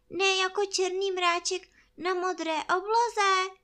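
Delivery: plain reading voice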